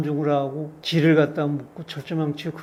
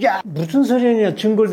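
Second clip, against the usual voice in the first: mock angry interrogator; 3 semitones higher, 4 dB louder than usual. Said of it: "육두문자를 내면서".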